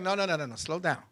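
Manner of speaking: soft, low, hushed "no, no"; hushed correction. Retold or imitated. Woman slowing eager young lover, hushed and low. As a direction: gently shush an eager partner. Retold partner slowing him down in bed.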